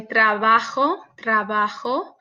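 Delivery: trabajo with the lips only meeting softly. Shown as a demonstration. Teacher demonstrating the soft b in the middle of a word. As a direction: barely close the lips for the b in trabajo. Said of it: "você apenas une os lábios".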